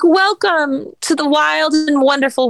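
high, sweet fairy princess voice; bright sing-song Barbie greeting; cartoon princess. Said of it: "You sounded like a fairy princess".

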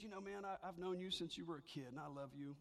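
soft, tender concern; a hint of a loving old friend; gentle caring friend. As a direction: speak softly like a worried friend. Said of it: "He said".

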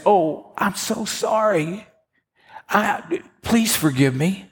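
hammed-up sorry friend; pleading apology. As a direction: beg forgiveness in a high put-on voice. Gossiping friend caught, begging forgiveness.

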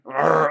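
short imitated kid's growl; mock growl. Daughter pinned by dad while play-fighting, mock growl. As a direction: growl back in mock defiance. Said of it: "don't growl at me".

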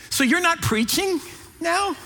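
high, puzzled questioning; mock bewilderment with a hesitant gap; confused mother. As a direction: play a baffled mother, voice lifted. Imitating his confused mother.

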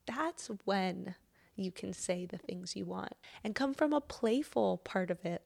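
unhurried self-help meditation read, often near a whisper; guided reflection. Acted. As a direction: gently lead the listener into gratitude. Leads a grateful breathing reflection.

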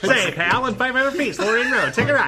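put-on a light old-timey reporter as a GPS. GPS voice redone as an old-timey reporter, lightly voiced. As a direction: give directions like an old newsreel man. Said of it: "New voice for your ways, old-timey reporter".

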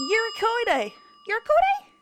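Eurycoidae, high and questioning, ending in ko-day; mispronounced. Shown as a demonstration. Contestant guessing a hard word, Eurycoidae mispronounced as yur-ih-ko-day. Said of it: "saying it wrong".

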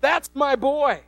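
God. Acted. Preacher voices God proudly claiming Jesus, booming fatherly call. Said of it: "God says".

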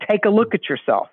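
unmoved, emotionless reply; deadpan psychologist. Retold or imitated. Skit psychologist brushing off the patient's protest, deadpan. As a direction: dismiss it with no emotion. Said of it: "same answer for everything".

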